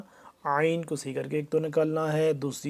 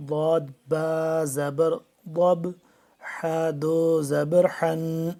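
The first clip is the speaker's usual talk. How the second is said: slow spelling drill; slower than usual. Shown as a demonstration. Teacher spells syllables slowly.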